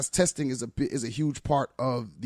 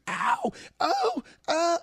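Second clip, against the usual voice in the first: imitated scream; much slower than usual. Retelling the teacher's scream as books hit her, mock scream. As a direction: mimic her startled yelps, pitched way up. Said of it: "you heard her scream".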